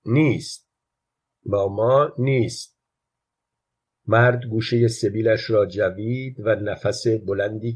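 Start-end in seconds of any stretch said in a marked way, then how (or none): 0.1-2.8 mildly insistent «نیست», falling firmly at the end; understated child's insistence on «نیست»; emphatic. A narrator's reading. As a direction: press on «نیست» with a firm fall. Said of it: "بچه با تأکید گفت".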